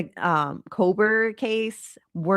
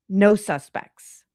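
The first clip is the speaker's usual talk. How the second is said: slow, pointed, louder No suspects; mocking emphasis; 3 semitones higher, 5 dB louder, slower than usual. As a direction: spell it out as a dig. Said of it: "it's a dig, obviously".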